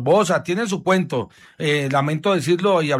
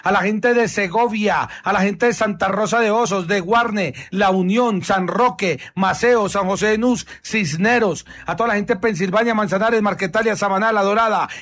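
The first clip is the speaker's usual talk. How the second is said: higher, brisk on-air listing; radio host roll call; 3 semitones higher than usual. Acted. Host listing towns for his listeners, announcer style.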